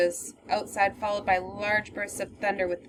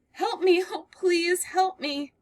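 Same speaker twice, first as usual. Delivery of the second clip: higher, slow and breathless with relief; sobbing, out of breath; 9 semitones higher, slower than usual. Acted. Girl bursting in from the storm, breathless and sobbing. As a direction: gasp it out, near tears. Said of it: "She is sobbing and is out of breath".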